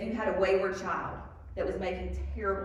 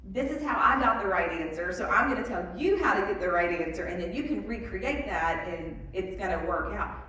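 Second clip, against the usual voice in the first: a louder, lightly put-on teacher voice; lecturing math teacher; 4 dB louder than usual. Shown as a demonstration. Math teacher telling a class the method, mildly insistent. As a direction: lay out the right answer like a math teacher. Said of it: "I tend to talk like".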